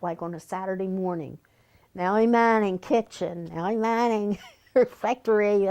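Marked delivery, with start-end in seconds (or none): 1.9-5.7 mock roll-call announcement, lightly projected; calling out duties. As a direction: imitate someone reading out the chore list. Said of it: "they called it out".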